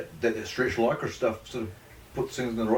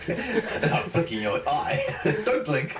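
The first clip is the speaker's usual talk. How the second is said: laughing; 3 semitones higher, much slower than usual. Pretend. Playful mock threat, laughing.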